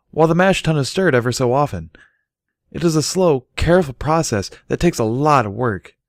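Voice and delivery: high, loud shout over the roar of the fire; shouting over roaring flames. Acted. Brewer shouts instructions to Bucky over the flames, high and loud. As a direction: call out over a blazing furnace, very high. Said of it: "Barry shouted over the roar".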